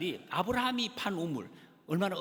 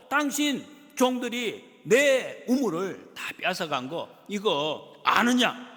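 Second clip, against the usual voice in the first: rebuke; 3 semitones higher, 6 dB louder, slower than usual. Retold or imitated. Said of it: "이렇게 지금 이야기를 하고".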